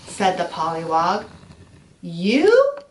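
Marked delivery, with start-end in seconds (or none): 2.0-2.8 high, loud shocked squeak; as if you almost fell in the pond; surprised. A narrator's reading. Caterpillar shocked that the pollywog will change too. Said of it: "The caterpillar was so surprised".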